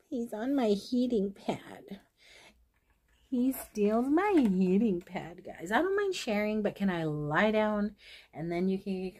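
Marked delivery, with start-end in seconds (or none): 0.1-5.7 hushed whisper so the cat stays put. Real, not acted. Telling viewers about the cat on the heating pad, whispered. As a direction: whisper it slowly, not to disturb him.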